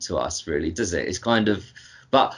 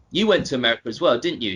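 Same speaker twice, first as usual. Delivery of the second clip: ordinary talk, nothing marked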